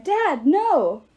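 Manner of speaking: high, loud cry. A narrator's reading. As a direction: yell to stop his father. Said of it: "Lit cried".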